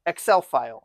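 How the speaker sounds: bare, simple words. Pretend. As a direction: dumb it down word by word. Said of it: "Use small words".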